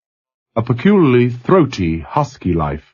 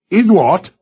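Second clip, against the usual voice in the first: startled; 10 semitones higher, 4 dB louder than usual. A narrator's reading. Captain startled.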